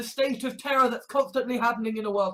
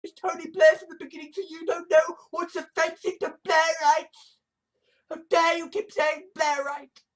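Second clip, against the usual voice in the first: fast, higher-pitched mock indignation; offended complainer; 4 semitones higher than usual. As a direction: rattle it off as a touchy objector. Acting an offended Blairite's rant.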